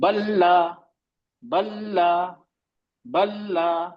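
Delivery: बल्ला with a middle-length ल्ल; steady doubled l in बल्ला; medium letter. Shown as a demonstration. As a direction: hold the ल्ल in बल्ला evenly. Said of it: "जो सिफात है वो थोड़ी जाहिर हो रही है".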